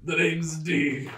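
put-on slow, drawn-out old man. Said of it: "Sorry, I'm old, I talk slow".

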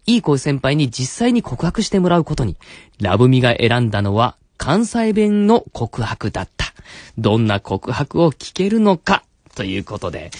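measured narrator read with dramatic pauses; story recap narration. Acted. Host recaps Labumi's story so far, narrator style. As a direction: set up the story like a serial recap.

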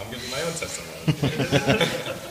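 words breaking into a real laugh; amused laughing. Real, not acted. Testimony speaker to the group on his own turn, amused laughing. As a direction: say it slowly, laughing through the end.

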